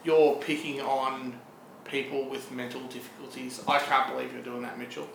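slow, deliberate mock telling-off; mock reproach. Co-host chides Mitchell over his story, mock disappointment.

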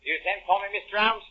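lightly voiced working-class tradesman; a hint of a cockney repairman; British workman. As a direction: play a humble workman at the door. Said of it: "a typical example of the British working man".

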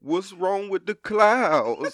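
put-on slow, tearful little girl voice, laughing through it; slow whimpering child voice; imitating scared child. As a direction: plays his daughter asking through tears. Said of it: "daughter quoted".

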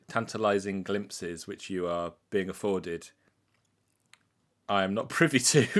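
stiff Victorian manner of speech; Dickensian voice. Pretend. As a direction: talk like a Dickens character. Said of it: "I don't know why I'm talking in this Dickensian way".

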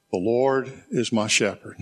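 emphasis falls on "is" in the verse; stress on IS. Shown as a demonstration. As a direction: lean on the word "is". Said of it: "I emphasized each one of those words".

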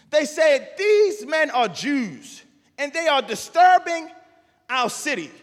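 slow, weighty reading of the text; preacher reading scripture to the church. Acted. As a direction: read the verse deliberately. Reads scripture aloud.

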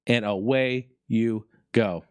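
slow, drawn-out "And away you go"; lingering slow repeat of "And away you go"; slow, savoring. Shown as a demonstration. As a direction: stretch "And away you go" out, relishing it.

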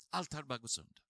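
repeated low and quiet, almost to himself; soft echo. Shown as a demonstration. Pastor echoes his own line to the congregation, hushed and low.

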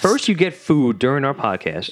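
hammed-up indignation at a guest; mock outrage. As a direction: draw out the pretend grievance.

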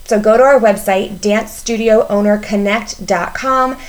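scripted podcast ad read; polished promotional voiceover; promo read. Acted. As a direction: read it as an announcement, lifting the key items. Reads a promo for the retreat.

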